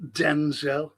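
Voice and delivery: "Denzel" with a full second syllable, den-ZELL; corrected DENZEL. Retold or imitated. Annoyed speaker repeating the pedant's version, "Denzel" mockingly said as den-ZELL. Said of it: "it's Denzel".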